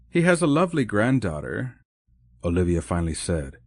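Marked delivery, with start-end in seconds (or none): 0.1-1.8 genuine warmth. Acted. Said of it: "with a genuine warmth".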